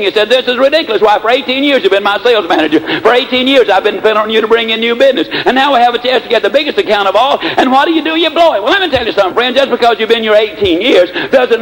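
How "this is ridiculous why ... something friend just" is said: building from angry to a much higher outraged peak; rising fury at the sales manager; hitting the ceiling. Acted. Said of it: "He literally hit the ceiling".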